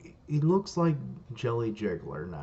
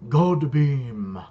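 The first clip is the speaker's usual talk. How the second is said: loud, raised battle yell; shouted attack; 4 semitones higher, 11 dB louder than usual. Acted. Dimple firing his laser, shouted attack call. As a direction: yell the move as you fire it.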